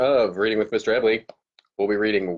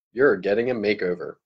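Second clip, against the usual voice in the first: expressive read-aloud to a class; storyteller's reading voice; story narration. A narrator's reading. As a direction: read it like a teacher sharing a chapter book. Teacher reads chapter aloud to class.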